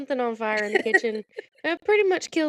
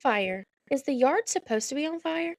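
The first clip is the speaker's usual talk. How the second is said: understated query with a rising lilt; calm, retold; 3 semitones higher than usual. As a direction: report an emergency as a mild, puzzled question. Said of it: "Just so calm".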